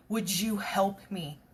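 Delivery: softly whispered, slow plea; timid whisper. Retold or imitated. Friend nervously asking for help, whispered slowly. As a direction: ask under your breath, hesitant.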